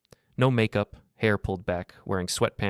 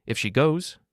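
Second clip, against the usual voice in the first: shaky voice; 7 semitones higher, 5 dB louder than usual. A narrator's reading. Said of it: "her voice shook".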